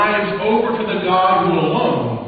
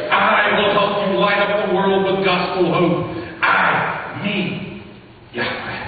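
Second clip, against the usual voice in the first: voice of God. Acted. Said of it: "God jabbing his thumbs into his own chest to say".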